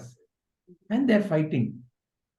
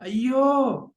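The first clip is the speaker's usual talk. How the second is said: dismayed Ayyo; 4 semitones higher than usual. Retold or imitated. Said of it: "is his response".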